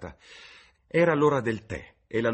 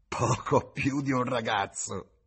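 slow, higher, louder mocking repeat; sneering echo; 6 semitones higher, 4 dB louder, slower than usual. A narrator's reading. Tavern woman mocks James's words with a slow sneer. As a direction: throw his words back with a sneer. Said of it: "sogghignò".

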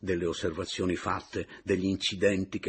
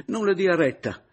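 pleading; 13 semitones higher, 9 dB louder than usual. A narrator's reading. Adriana pleading softly to Meis.

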